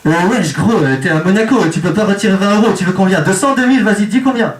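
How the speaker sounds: french suburb street slang. Retold or imitated. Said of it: "le distributeur ... parle comme ça".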